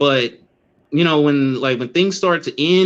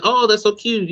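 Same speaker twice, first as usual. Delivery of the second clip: higher, sing-song host voice; mimicking the host; 7 semitones higher than usual. Mocking the dating show host, higher and sweet. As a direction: imitate a cooing talk show host. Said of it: "she's like".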